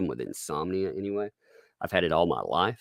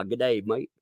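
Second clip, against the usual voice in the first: lightly attempted Aussie accent; a Southerner's weak stab at an Aussie accent; 3 semitones higher than usual. Shown as a demonstration. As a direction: try Aussie, not very convincingly. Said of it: "Can you try an Aussie accent".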